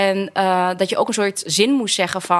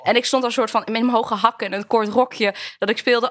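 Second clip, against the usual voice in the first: usual speaking voice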